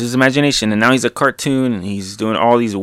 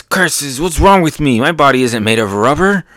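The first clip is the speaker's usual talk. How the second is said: dismayed Kaido; 4 semitones higher than usual. Acted. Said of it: "Kaido goes".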